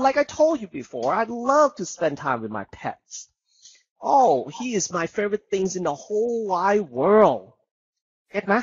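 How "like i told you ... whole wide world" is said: teacher shows how to speak with emotion. Shown as a demonstration. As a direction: sing it out with feeling, rising and falling. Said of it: "เห็นไหม เวลาพี่พูด".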